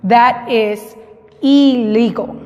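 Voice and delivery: 'Illegal' opening on a clear ee, as in Spanish. Shown as a demonstration. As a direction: model That is Illegal with 'ee-ligol'. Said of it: "en este caso suena como I".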